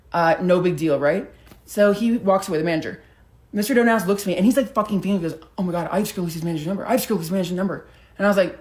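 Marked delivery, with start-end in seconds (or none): 5.6-7.9 rapid, hushed giddy gloating; freaking out. Retold or imitated. Jealous friend gloating to her about the manager's number, fast and hushed. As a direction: rush it under your breath in disbelief.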